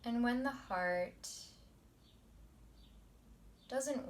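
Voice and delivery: soft, measured meditation teacher voice; quiet, unhurried guidance; guided meditation. Acted. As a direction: ease them into calm, leaving long pauses. Leads the meditation.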